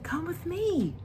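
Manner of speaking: high whisper, soft and beckoning; a star's breathy whispered call; whispered invitation. Acted. Star invites Sule.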